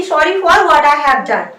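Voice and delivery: very slow, word by word; slow model sentence. Shown as a demonstration. Teacher repeats the sentence slowly as the model. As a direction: dictate it slowly for the class to copy. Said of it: "इसे English में ऐसे बोला जाता है".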